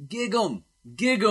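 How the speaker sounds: high loud chant; crowd yelling. Retold or imitated. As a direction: shout it like a rowdy crowd. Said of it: "people started yelling".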